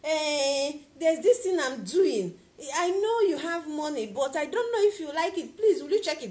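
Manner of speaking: a hint of a timid pleading seller; mildly hesitant begging; beggarly pitch. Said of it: "you're talking this way".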